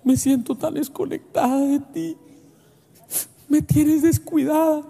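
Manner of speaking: lightly voiced hurt wife; a hint of a wife saying she feels neglected; wife's complaint. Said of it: "mi esposa dice".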